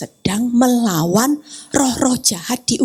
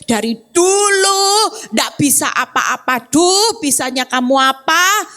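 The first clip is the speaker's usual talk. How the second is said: a hint of a scornful husband's taunt; husband belittling his wife, mild mock scolding; mocking husband insult. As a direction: toss the insult off with a touch of a yell on bisa. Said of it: "kalau dikatai suami saya".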